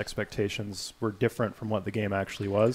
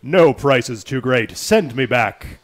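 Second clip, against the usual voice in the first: player character voice; 7 dB louder, slower than usual. Acted. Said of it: "I'll change it up for the player character".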